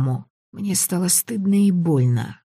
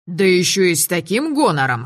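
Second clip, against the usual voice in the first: ordinary delivery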